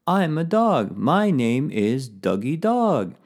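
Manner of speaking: playful puppet dog with drawn-out words; bark, then talk as a silly dog; funny dog puppet voice. Shown as a demonstration. Dog puppet introducing itself to pupils, funny voice. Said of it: "I use a little funny voice".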